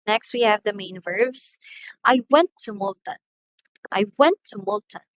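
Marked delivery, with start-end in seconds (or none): 2.0-3.2 "went" raised and loud, falling after it; stress on went. Shown as a demonstration. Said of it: "the word went here is our main verbs". 3.9-5.1 "went" lifted above the rest; stress on went. Shown as a demonstration. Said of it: "the word went here is our main verbs".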